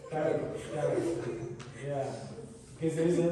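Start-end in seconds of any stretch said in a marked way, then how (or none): 0.1-1.6 whispered slowly, soothing; soft whisper to a baby. Shown as a demonstration. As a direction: hush it like lulling a child. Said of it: "called Karen in Arabic".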